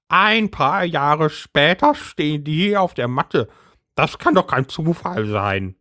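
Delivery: high agitated housewife voice; Brigitte's voice. A narrator's reading.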